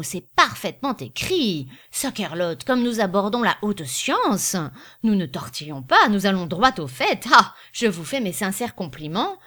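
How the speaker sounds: emphatic, lively praise with loud peaks; hearty salesman. Acted. Illustrious salesman praising Finot's prospectus, hearty and emphatic. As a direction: play a salesman loudly congratulating his writer.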